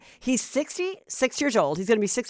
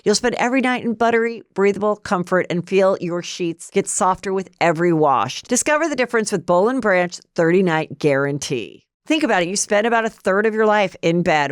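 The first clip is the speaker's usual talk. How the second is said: ad read. Acted. Podcast host reads the sheet sponsor spot in an upbeat ad voice.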